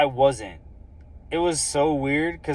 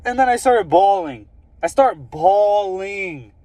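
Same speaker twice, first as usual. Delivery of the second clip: emotional; 6 semitones higher, 4 dB louder than usual. Real, not acted. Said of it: "that uncontrollable bawling".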